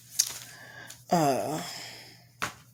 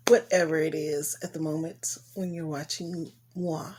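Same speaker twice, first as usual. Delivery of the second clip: playful whisper. Pretend. Playful aside, "moi.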